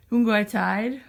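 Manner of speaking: high cooing pet voice. Real, not acted. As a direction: coo the question to the cat. Asking the cat again.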